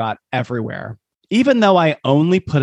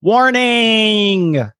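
loud warning; 8 semitones higher, 3 dB louder than usual. Acted. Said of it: "this is all caps".

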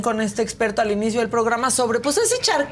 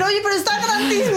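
presumido exagerando; 6 semitones higher, faster than usual. Retold or imitated. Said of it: "ellos siempre tienden a decir".

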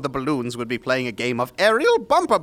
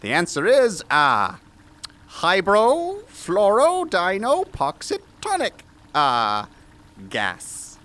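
grandiose eccentric scientist; mad scientist voice; 3 semitones higher than usual. Acted. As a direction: play the pompous mad doctor. S0 voices Doctor West.

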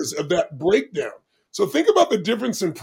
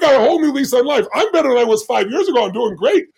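higher, louder, elated quote; retold elation; 5 semitones higher, 4 dB louder than usual. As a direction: act out his new lease on life with gusto. Father-in-law's elated reaction after test.

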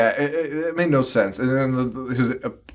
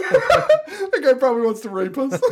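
mock shrill teen; 10 semitones higher than usual. Mocking the girls' chatter.

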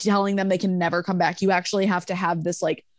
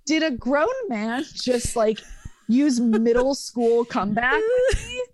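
incredulous; 3 semitones higher than usual. Retold or imitated. Incredulous inner reaction.

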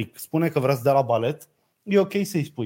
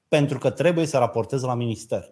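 mild mock shrill yell; 4 semitones lower than usual. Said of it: "Da, a țipat, tot subțire".

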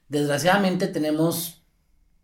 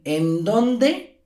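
measured, deliberate question with a held pause after it; slow scolding mother; 2 semitones higher than usual. Retold or imitated. Mother demanding her child's whereabouts, slow scolding. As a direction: lay it out slowly like a stern mom. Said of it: "las mamás te lo aplican".

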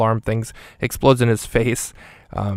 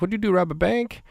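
much higher, goofy cartoonish voice; Michael Pena voice; 9 semitones higher than usual. Hitman teasing Nick about the bank money, high goofy voice. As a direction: ask it in a high, giddy squeak. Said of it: "He's like".

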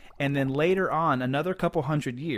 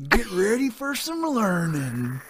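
put-on high, bright announcer voice for kids; teacher voice; 8 semitones higher, 5 dB louder than usual. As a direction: play a chirpy kids' show host.

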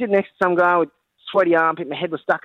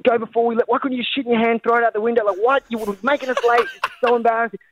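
higher, scolding mock yell at a little sister; 5 semitones higher than usual. Siblings yelling at the little sister to hurry, mock yelling. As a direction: pitch it up and nag her to hurry. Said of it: "We were, like, yelling and swearing at her".

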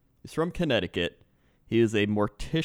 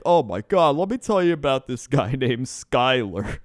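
exasperated mock Canadian driver; louder comic Canadian accent; 2 semitones higher, 5 dB louder than usual. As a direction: launch a gripe in a put-on Canadian accent. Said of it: "need you to use that accent".

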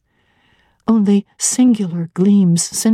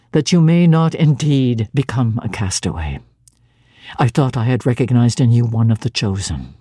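much lower, grave and measured; solemn stern clergyman; 8 semitones lower than usual. Acted. Clergyman praying over her fate, low and solemn. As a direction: pronounce it like a cold blessing.

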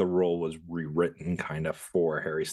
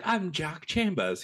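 mock voice; 10 semitones higher, slower than usual. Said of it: "He wasn't like".

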